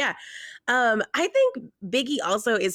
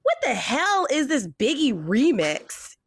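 mocking clueless boyfriend; 8 semitones higher, slower than usual. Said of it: "he stops it and goes".

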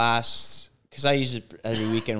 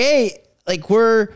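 high and loud, pleading; retold protest; 8 semitones higher, 6 dB louder than usual. Passenger protesting to the Uber driver, raised voice. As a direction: insist they must wait.

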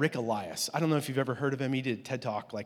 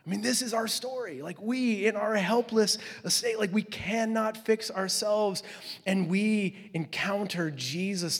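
preaching higher; 5 semitones higher, slower than usual. Real, not acted. Preacher building to the message.

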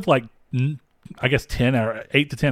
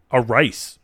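lightly mimicked Lucas Black Southern drawl; imitated Southern accent. Host mimicking the actor's line that made him cackle, Southern accent. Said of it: "He's like".

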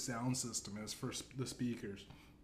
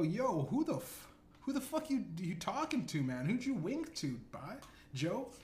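much higher, pitched-up disbelieving questions; mock incredulous demand; 6 semitones higher than usual. Narrator confronting Biden about the wink, mock high outrage. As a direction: squeak out the challenge in mock outrage. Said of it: "And I go, I go".

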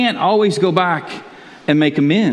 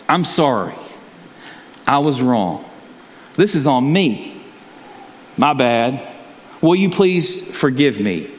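sincere apology; 3 semitones lower, slower than usual. Shown as a demonstration. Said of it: "the power of a sincere apology".

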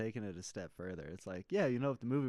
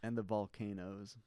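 slow, softer, simple delivery; Forrest Gump; 3 semitones lower, 6 dB quieter than usual. Real, not acted. Friend joking about Hawaii, like Forrest Gump. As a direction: say it slowly with a hint of that movie character. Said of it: "very, like, Forrest Gump slash".

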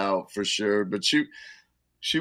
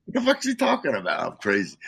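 mock disbelief. Retold inner thought, high.

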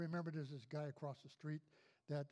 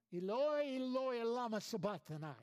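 loud, higher anguished cry; cry from the cross; 5 semitones higher, 7 dB louder than usual. Acted. Preacher voicing Jesus on the cross crying to the Father, loud and higher. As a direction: cry it out like a dying man calling to God. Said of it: "He cried out".

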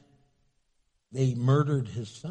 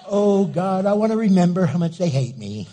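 louder, laughing mock glee; hammed-up delight; mock relish; 6 dB louder than usual. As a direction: savor the hate letter with a laugh. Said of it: "I'd keep it".

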